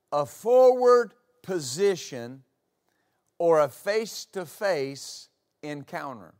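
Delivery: "forward" stretched slowly and leaned on; slow emphatic repeat. Shown as a demonstration. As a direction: lean slowly into the word "forward".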